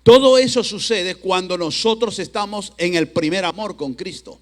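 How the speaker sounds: loud, forceful sermon delivery; emphatic preaching. Real, not acted. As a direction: press each phrase on the congregation.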